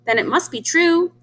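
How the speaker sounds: high goose, sure of it; lightly voiced goose agreeing. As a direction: end high and certain. Goose concludes.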